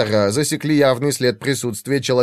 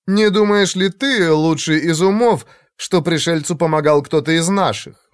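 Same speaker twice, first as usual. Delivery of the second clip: ironic; 5 semitones higher than usual. Acted. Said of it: "иронично спросила магичка".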